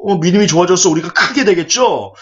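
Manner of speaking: lightly acted brash assurance; proud confidence. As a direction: imitate chest-thumping, self-assured disciples. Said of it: "그렇게 떳떳하게 가슴을 피면서".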